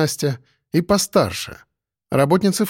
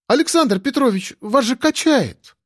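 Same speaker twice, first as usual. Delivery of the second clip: put-on young girl anxiously calling out; worried young girl; 10 semitones higher than usual. A narrator's reading. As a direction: call out to him in alarm as Nastya. Nastya alarmed at his stagger.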